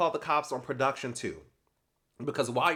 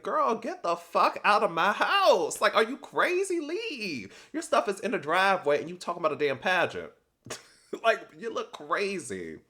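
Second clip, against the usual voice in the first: mock screaming at her, much higher and louder; imitated furious yelling; 7 semitones higher, 5 dB louder than usual. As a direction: throw her out of your house, yelling. Rosie throwing Kelsey out.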